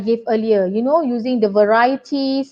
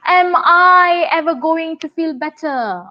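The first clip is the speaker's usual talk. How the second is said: dramatic question; 4 semitones higher than usual. Shown as a demonstration. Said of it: "you want to be a bit drama queen".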